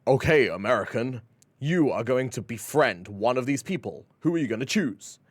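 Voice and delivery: flat robot voice. Retold or imitated. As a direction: say it like a machine announcer. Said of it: "some robot voice says".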